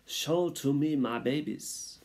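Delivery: high, slow, theatrical French mother mouse; exhausted mother. A narrator's reading. Mother demands to see her newborns, exhausted and theatrical. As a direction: draw it out high in a French accent. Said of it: "said the exhausted mother".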